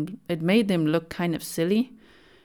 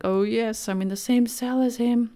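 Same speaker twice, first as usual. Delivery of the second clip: mock thrilled inmate; 5 semitones higher than usual. Inmate thrilled by the killer's old cell, mock giddy delight. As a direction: gush like a starstruck fan over the cell.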